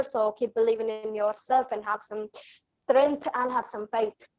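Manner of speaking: Scottish accent. Shown as a demonstration. Guest comforts listeners in Scottish, a light Scottish accent.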